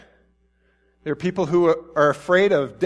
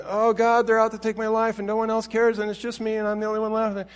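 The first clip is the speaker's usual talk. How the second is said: high, whiny, despairing complaint; complaining Elijah; 7 semitones higher than usual. Retold or imitated. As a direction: moan it like a man who thinks he's all alone. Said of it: "When Elijah's complaining".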